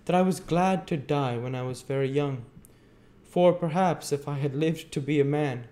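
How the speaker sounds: put-on high, earnest child's voice; fervent child. A narrator's reading. Dying Dick speaking of his sister in heaven, fervent. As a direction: pour it out earnestly in a small high voice. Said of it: "speaking with great fervor".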